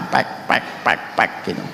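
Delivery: soft unvoiced pek pek, tapping out the busker's hand beat; imitated hand drumming. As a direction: quietly mimic the slap of a hand on a drum. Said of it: "pakai tangan Pak". (tiruan bunyi tepukan tangan, pelan tanpa suara)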